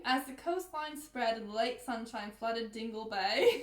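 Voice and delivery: slow, Australian-tinged book reading; amateur British-turned-Australian accent; put-on Australian accent. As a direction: read it slowly in a shaky Australian accent. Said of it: "You're Australian, that's okay".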